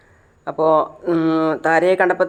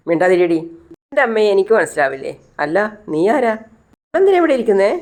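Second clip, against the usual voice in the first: acted indignant challenge; 3 semitones higher, 3 dB louder than usual. Disturbed daughter silencing a woman and challenging a stranger, indignant. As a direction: play a cross patient, pitch jumping up at the end.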